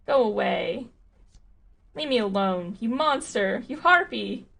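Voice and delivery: screaming her away through tears; tearful furious shout. Acted. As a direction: Clarissa shouting through the door, building to a shriek. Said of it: "She collapses into a flood of tears again".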